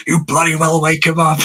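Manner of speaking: high, posh British accent, mock-indignant. Mocking a posh British radio host's accent on a late-night call. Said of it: "the posh accent".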